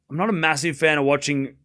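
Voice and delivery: hoarse raspy voice; raspy, worn-out voice; smoker's rasp. Real, not acted. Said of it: "I sound like I've been smoking a pack a day".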